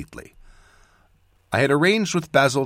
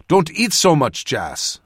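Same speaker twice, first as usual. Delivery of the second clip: raised plea that drops away; plead, starting high and loud; 6 semitones higher, 4 dB louder, slower than usual. A narrator's reading. Cadal begs Jas to eat less, pleading. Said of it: "Cadal pleaded".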